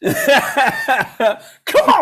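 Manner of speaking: high, loud mock frontman call; rock-star crowd call. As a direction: egg Tommy on like an arena crowd. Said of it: "coaxing Tommy with a laugh".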